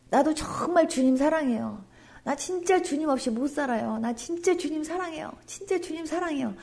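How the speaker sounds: soft, hushed declaration of love; tender confession. Pretend. Worshipper confessing love to the Lord, soft and tender.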